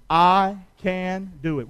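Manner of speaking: slow, deliberate I can do it; slow call-and-response. Shown as a demonstration. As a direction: lead the crowd, word by word. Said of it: "Say that with me".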